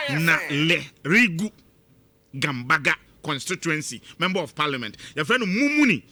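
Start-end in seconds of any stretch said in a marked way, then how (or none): 0.1-1.5 "Naririgu" said very slowly, syllable by syllable, na-ri-ri-gu; careful pronunciation. Shown as a demonstration. Talk-show host slowly sounding out the town name "Naririgu". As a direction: spell out "Naririgu" slowly and carefully, falling at the end. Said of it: "It is just the pronunciation".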